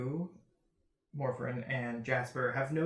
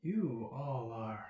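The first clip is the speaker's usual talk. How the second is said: gushing stranger. Acted. Flamboyant stranger fawning over the adventurers. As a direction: gush over the party like a starstruck fop.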